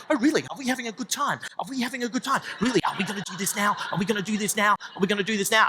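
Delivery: sarcastic challenge. Retold or imitated. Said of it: "hushed, angry argument".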